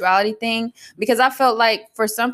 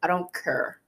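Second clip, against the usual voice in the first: softer imitation of Bermudian talk, "care" as "cur"; cousin's Bermudian accent; 4 semitones lower, 8 dB quieter than usual. Imitating a cousin who talks like that, Bermudian accent. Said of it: "My cousin talk like that".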